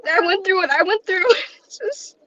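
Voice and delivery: holding back tears while she keeps going; near tears. Real, not acted. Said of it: "I'm really emotional".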